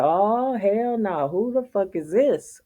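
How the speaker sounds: hammed-up indignant newcomer reaction; imitating a dog's owner. Neighbor's dog acting out who the newcomer is. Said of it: "they be like".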